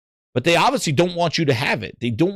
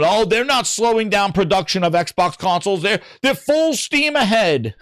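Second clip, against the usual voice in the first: mock Bootleg Jez; 6 semitones higher than usual. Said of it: "Bootleg Jez will be the first one out there going".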